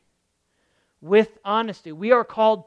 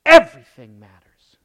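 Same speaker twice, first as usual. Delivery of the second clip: breathy hushed whisper on everything matters; 7 semitones lower, 16 dB louder than usual. Acted. Preacher hushing the congregation, whispered. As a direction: lean in and whisper it like a secret. Hushed point after long pause.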